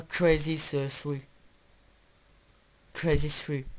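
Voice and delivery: attempted English accent on "Crazy Three". Shown as a demonstration. Vlogger showing off the game's title, attempted English accent. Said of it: "je vais faire avec l'accent".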